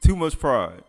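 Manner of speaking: laughing it out slowly; chuckling, drawn-out repeat. Real, not acted. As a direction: repeat it through a laugh, amused.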